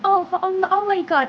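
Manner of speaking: sudden brain freeze, pained gasps. Acted. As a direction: brain freeze, clutching head. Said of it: "I had a brain freeze right now".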